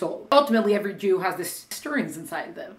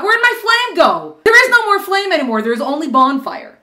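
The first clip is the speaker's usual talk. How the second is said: mock bewilderment; 9 semitones higher, 6 dB louder than usual. Mock puzzled flame speaking.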